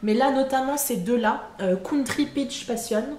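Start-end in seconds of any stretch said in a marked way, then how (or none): 1.8-3.0 a mildly English-sounding "Country Peach Passion", said slowly; a wry attempt at an English accent on "Country Peach Passion". Shown as a demonstration. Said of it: "avec mon super accent anglais".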